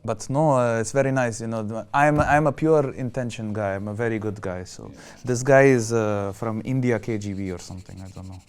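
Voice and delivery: a lightly put-on Russian accent, wooing; mild mock Russian accent, smooth and flirting. Host in a Russian accent woos Anastasia away from Sandeep, lightly put-on Russian accent. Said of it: "The accent really works".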